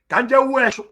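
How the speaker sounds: lightly voiced Nsukka Igbo; Nsukka dialect. Shown as a demonstration. Teacher quoting an Nsukka person to show dialects, Nsukka dialect. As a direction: say it as an Nsukka person would, "eshu" with sh. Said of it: "Nsukka person will say".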